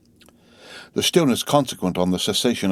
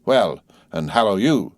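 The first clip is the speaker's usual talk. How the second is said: hoarse. Acted. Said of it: "more hoarsely than before".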